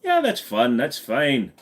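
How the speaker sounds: put-on relaxed Scottish accent; loose, easygoing Scottish lilt; Craig Ferguson. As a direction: let the Scottish accent go slack. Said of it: "he's always just kinda".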